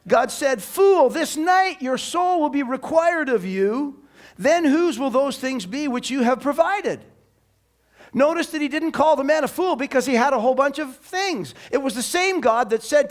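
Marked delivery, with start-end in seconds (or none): 0.6-7.0 high, forceful reading of a divine rebuke; preacher voicing God's verdict; declaimed rebuke. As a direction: pronounce judgment, opening hard on FOOL. God's rebuke read dramatically.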